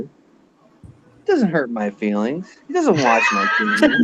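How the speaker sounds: a little choke as you say it; choked up. Real, not acted. Hurt by the host ignoring his emails, voice catching. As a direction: voice catching on the words. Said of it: "where you choked up a little bit".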